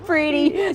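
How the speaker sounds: "pretty" with a long ee; playful stretched pretty; particular pronunciation of pretty. Shown as a demonstration. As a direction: say pretty as "preety". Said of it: "say it as".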